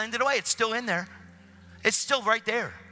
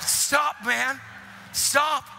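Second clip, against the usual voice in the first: raised-pitch plea to stop; urgent protest; 8 semitones higher, much slower than usual. Retold or imitated. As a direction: plead with him to quit. Tries to stop the man.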